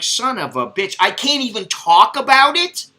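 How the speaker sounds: mock fed-up complaint; exasperated. Son fuming at being hushed, high and indignant.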